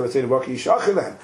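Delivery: "Hatzayin uvakar yishachit lahem" rattled off fast as a plain citation; rushed reading of the verse; quick quote. Shown as a demonstration. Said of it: "And Rabbi Akiva might say".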